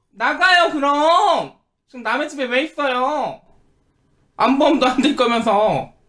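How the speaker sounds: anger flaring up suddenly. To a visitor who was invited over, suddenly angry. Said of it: "왜 갑자기 화를 내세요?".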